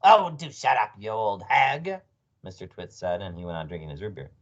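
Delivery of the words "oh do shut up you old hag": irritated retort. A narrator's reading. Mr Twit insults his wife.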